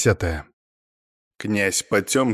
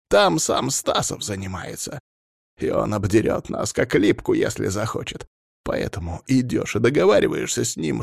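high-pitched, irate boss; exasperated, commanding clan head; angry ordering; 7 semitones higher than usual. A narrator's reading. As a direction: lay down orders with rising impatience.

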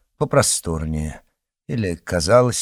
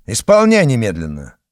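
stern command; 6 dB louder than usual. Acted. Officer orders the guard.

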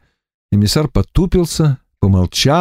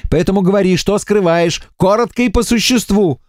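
higher, cold reprimand; stern Varvara; 8 semitones higher than usual. A narrator's reading. Варвара отчитывает эмиссара, строго. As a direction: put him in his place firmly.

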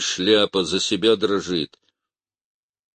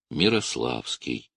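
whiny; 6 semitones lower, 4 dB quieter than usual. A narrator's reading. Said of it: "плаксиво заявил семинарист".

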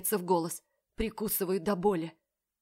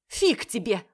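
louder cheeky retort; defiant; 3 semitones higher, 7 dB louder, slower than usual. A narrator's reading. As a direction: throw it back at him. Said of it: "отвечает Оля".

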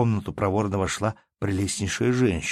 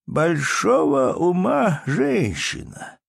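higher, very slow, weighty drawl; old man's praise; 8 semitones higher, 4 dB louder, much slower than usual. Acted. Old count praises the baroness, slow and weighty. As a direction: lean on ума, deliberate and grand. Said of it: "прибавил он".

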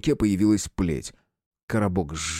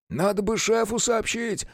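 much higher, unsure voice of a distant guard; unsure grumble; 13 semitones higher than usual. Acted. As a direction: mumble it hesitantly over the radio. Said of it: "неуверенно пробухтел далёкий собеседник". (неуверенное бормотание далёкого собеседника)

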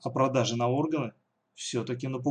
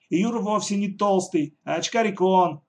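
solemn declaration; 7 semitones higher, 5 dB louder than usual. Acted. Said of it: "торжественно заявила Катя".

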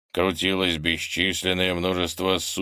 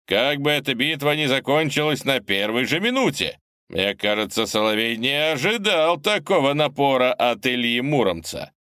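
booming announcer; 5 semitones higher than usual. Acted. Commentator continues broadcast.

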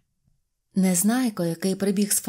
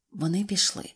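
plain reading voice

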